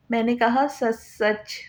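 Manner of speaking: slow, pressing on सच सच, each word weighted; insisting. A narrator's reading. Husband pressing his wife for the truth, slow and insistent. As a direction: lean on "सच सच" slowly to demand the truth. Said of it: "वो ज़ोर देता बोला".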